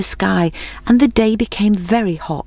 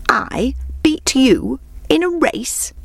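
higher, slow, disbelieving hare; exclaiming; 8 semitones higher, slower than usual. Acted. Hare scoffs at the tortoise's challenge, exclaiming in disbelief. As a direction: scoff at the very idea of it. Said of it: "exclaimed the hare".

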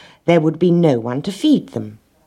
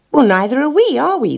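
much higher chorus of animals; chorused reply; 11 semitones higher, 4 dB louder than usual. A narrator's reading. Puzzled animals answering the little red hen, chorusing. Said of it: "they chorused".

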